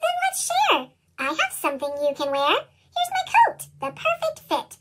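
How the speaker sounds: put-on high little girl voice. A narrator's reading. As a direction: offer it sweetly like a small girl, pitched high. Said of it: "A little girl said".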